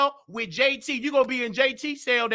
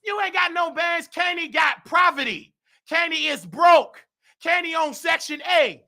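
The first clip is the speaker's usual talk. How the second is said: mock roast; 3 semitones higher than usual. Real, not acted. Keeps roasting the rival loudly.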